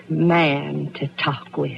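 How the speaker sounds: coy hush. Acted. Widow luring Mister Bass inside, dropping to a coy hush. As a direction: let his name fall to a breathy hush.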